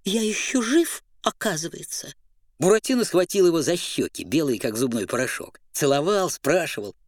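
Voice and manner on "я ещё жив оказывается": moaning. Acted. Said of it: "простонал".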